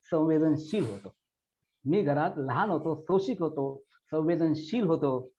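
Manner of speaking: measured, heartfelt poetry reading with repeated lines; poem recitation. Acted. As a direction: Marathi poem recited with feeling. Recites a poem about father.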